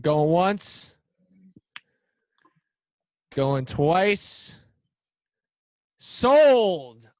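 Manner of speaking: going once, going twice, sold; auctioneer. Acted. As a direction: call it like an auctioneer. Auction call closing the bid.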